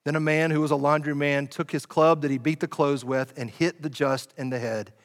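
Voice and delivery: a preacher performing an ancient account; dramatic reading of the martyrdom of James. Acted. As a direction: read it like a movie, with mounting tension. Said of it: "I'll read it like it's dramatic".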